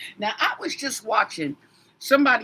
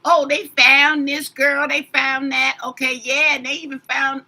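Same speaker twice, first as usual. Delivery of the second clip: louder, higher mock gossipy report; mock detailed report; 4 semitones higher, 5 dB louder than usual. Tarot reader imagining talkative cards, mock gossipy report. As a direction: act out the cards spilling every detail.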